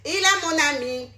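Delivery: lightly voiced smug believer humming to herself; mock sing-song churchgoer. Mocking a pious friend who thinks she is safe, slow sing-song. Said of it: "tu es dans ton monde en train de chanter".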